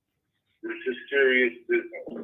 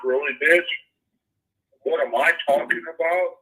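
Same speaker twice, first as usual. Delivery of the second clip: indignant retort; 6 semitones higher than usual. Retold or imitated. Indignantly retelling his reply to bosses.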